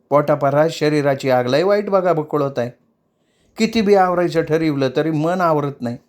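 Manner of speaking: put-on mildly tearful young woman; tearful explaining. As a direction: lay out her trouble, pleading. Hausi grows bolder.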